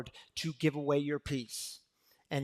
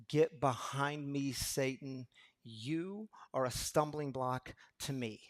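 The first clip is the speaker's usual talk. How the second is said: harsh rebuke; 5 dB quieter, slower than usual. Acted. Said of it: "some of the harshest words".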